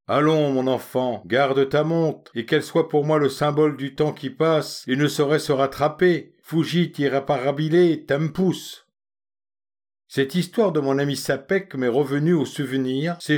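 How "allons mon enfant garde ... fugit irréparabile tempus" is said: doux et indulgent, un peu posé; avec mansuétude. Acted. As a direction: pardonne comme un bon oncle. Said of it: "conclut avec une infinie mansuétude". (légère bienveillance paternelle)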